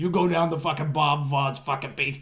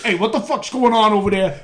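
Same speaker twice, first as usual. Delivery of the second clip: Elmo voice; 3 semitones higher, 4 dB louder than usual. Retold or imitated. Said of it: "Elmo's like".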